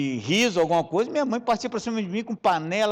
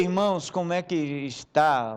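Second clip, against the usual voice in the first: usual speaking voice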